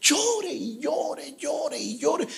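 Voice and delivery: slow, high, drawn-out mock sobbing; a touch of acted crying, slow and high; retold weeping. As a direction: stretch each llore like remembered tears. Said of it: "Me la pasé llorando".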